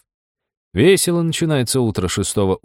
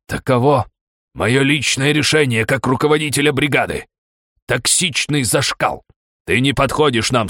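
dignified; 4 semitones higher than usual. Acted. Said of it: "с удивительным достоинством произнёс".

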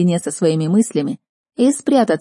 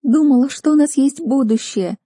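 higher, louder teary whine; whiny sniffle; 8 semitones higher, 3 dB louder than usual. A narrator's reading. Sister whining to Kristel about the boy, tearful. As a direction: whine it like a wounded little sister. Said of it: "продолжала гнусавить сестрица".

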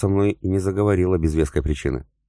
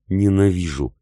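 shout; 3 semitones higher, 3 dB louder than usual. A narrator's reading. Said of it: "кричала запертая в своей комнате".

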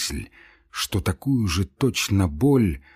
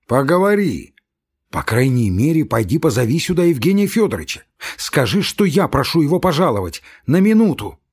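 heated shouting; 3 semitones higher, 4 dB louder than usual. Acted. Shouting through the door.

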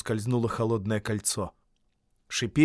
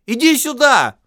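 much higher, louder call; louder shout; 14 semitones higher, 11 dB louder than usual. Acted. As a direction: yell it across the lake. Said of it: "закричал Бильбо громче".

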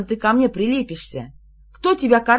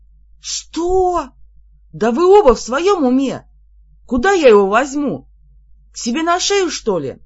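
high and louder, disbelieving exclamation; astonished outburst; 6 semitones higher, 6 dB louder than usual. A narrator's reading. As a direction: cry out in amazement at both of them. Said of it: "Я изумлённо обернулась".

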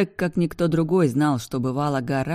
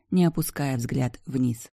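plain reading voice

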